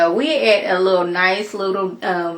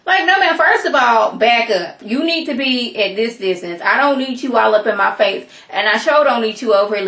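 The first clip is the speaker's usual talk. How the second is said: mock telling off; 3 semitones higher, 4 dB louder than usual. Telling off a girl getting close.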